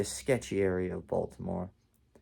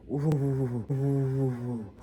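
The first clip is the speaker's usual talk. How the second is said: long shuddery "ooh"; shivering ooh; 3 semitones higher than usual. Retold or imitated. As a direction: act out shaking in bed with drawn-out oohs. Shows shaking in fear in bed.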